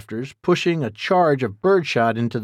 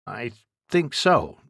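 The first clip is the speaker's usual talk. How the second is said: uneasy. Acted. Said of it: "Jack said with evident unease".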